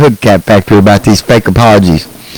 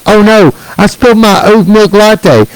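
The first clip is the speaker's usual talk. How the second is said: mock whiny influencer; 8 semitones higher than usual. Mocking pampered influencer.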